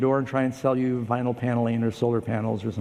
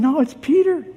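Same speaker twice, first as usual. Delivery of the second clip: insisting; 12 semitones higher, 5 dB louder than usual. Acted. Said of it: "She kept insisting".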